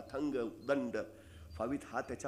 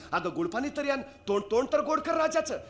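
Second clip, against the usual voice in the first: put-on higher, louder voice of an eager old mother; old mother urging; 12 semitones higher, 5 dB louder than usual. Mother urging her daughter-in-law to bring jaggery water, eager higher voice. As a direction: press the daughter-in-law, then coax the king. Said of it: "शिवाकाशीची आई ... म्हणाली".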